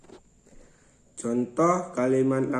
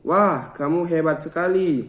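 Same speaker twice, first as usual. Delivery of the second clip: mild exclamation of praise, read as an example; high-toned exclamation. Shown as a demonstration. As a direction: lightly lift the voice on a demonstration exclamation. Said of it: "bernotasi tinggi".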